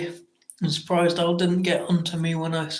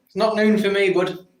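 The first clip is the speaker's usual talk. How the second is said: higher, louder shout of correction; 5 semitones higher, 3 dB louder than usual. Real, not acted. Streamer shouting to Jack that it isn't noon, loud. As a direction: call it out across the room. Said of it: "I don't know why I'm shouting".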